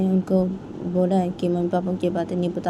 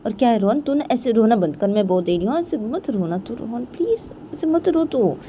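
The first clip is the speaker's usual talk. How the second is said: higher-pitched plea, slowing towards the end; pleading; 5 semitones higher than usual. Acted. Payal begs crying Rohan to stop, pleading. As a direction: beg someone to stop crying, drawing it out.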